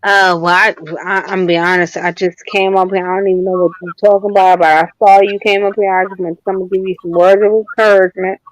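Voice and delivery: muffled, like through a wall. Real, not acted. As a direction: voice muffled by covering. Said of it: "You, you sound muffled".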